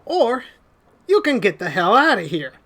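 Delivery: lightly put-on Southern threat; Southern accent. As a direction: warn them off in a Southern accent. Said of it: "second guy with the southern accent".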